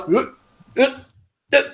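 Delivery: short imitated penguin grunts; mock penguin noises. Co-host mimicking players jumping like March of the Penguins, mock penguin noises. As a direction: stiff little penguin "uh" sounds, spaced out. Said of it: "everyone will just be like March of the Penguins".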